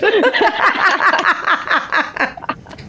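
bright high burst of laughter. Real, not acted. Laughing at own joke.

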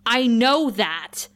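slow, firm, every word weighted; forceful. Retold or imitated. Willow facing Tara's dad, slow forceful retort. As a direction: plant each word like a wall. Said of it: "says so forcefully".

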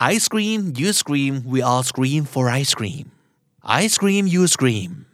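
very slow, each word spaced out; slow drill. Shown as a demonstration. Teacher slowly modelling the rhyme for listeners, spaced out. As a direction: lay every word down slowly. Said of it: "พูดไปห้าครั้งนะครับ".

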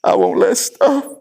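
put-on slow, halting reluctant child; lightly voiced boy repeating dad's words; imitating young son. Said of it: "He says".

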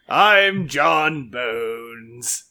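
slow spooky ghoul voice, lightly done. Acted. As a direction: drag it out like a ghost. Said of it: "very spooky".

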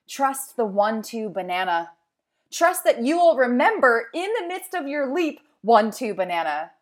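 excited urging. Acted. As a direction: cheer them on like you're mid-jump yourself.

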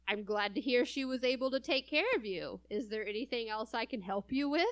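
snide but polite; sweetly sarcastic service voice. Retold or imitated. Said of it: "You hear the sarcasm and the snideness?".

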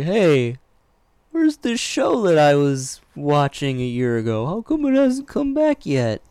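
puzzled viewer. Retold or imitated. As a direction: play a lost fan wondering where the show went. Imitating viewers missing their show.

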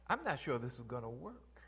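whispered worry; doubtful whisper. Retold or imitated. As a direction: hush it like a secret doubt.

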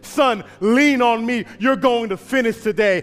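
father reassuring. Acted. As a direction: lean him on you, reassure him. Father comforting his son.

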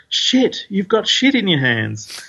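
high, emphatic know-it-all answer; certain. Acted. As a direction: blurt it with total confidence. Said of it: "with a high degree of certainty".

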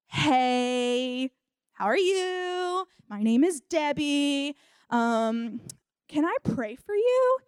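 drawn-out, hesitant greeting that lifts at the end; mock-timid introduction; awkward approach. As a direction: tiptoe into it, stretching words, rising on the question. Voicing Debbie awkwardly approaching stranger.

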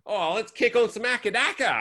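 acted upbeat Australian fan; keen fan. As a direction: play a mate proposing some music. Acting an Australian music fan.

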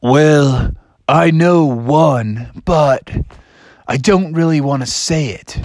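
slow, drawn-out hesitant voice; reluctant big egg. Acted. Egg pupil unwilling to recite, slow hesitant voice. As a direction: drag the words out with reluctance. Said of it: "And he was like".

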